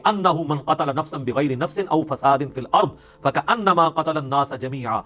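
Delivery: slow, measured Arabic recitation; stately scripture quotation in Arabic; Quran recitation. Acted. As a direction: recite the verse with drawn-out syllables.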